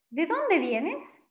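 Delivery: "¿De dónde vienes?" dicho despacio y claro, subiendo al final; pregunta lenta y clara. Shown as a demonstration. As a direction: pregunta en español, despacio, como modelo para alumnos. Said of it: "Una pregunta muy común". (pregunta modelo, lenta y clara)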